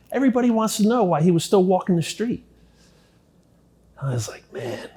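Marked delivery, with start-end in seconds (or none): 0.1-2.5 excited gossip. Retold or imitated. Guard quoted, excited gossip. 4.5-4.9 stunned whisper. Retold or imitated. Stunned reply to good news.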